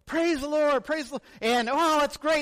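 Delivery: playfully over-the-top amen; mock praise. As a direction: friends gush over the message. Friends' worshipful response.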